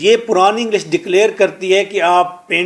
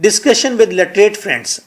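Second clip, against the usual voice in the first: slow; much slower than usual. Shown as a demonstration.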